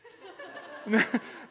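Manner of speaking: mock stifled sob; wordless put-on crying noise; imitated tearful sniffle. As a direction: act out a child holding back tears. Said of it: "she'll just go like this".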